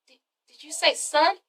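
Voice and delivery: soft, halting mock disbelief; stunned stammer. Terrence learning he has a son, stunned stammer. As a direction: stumble quietly on the first word, imitating shock.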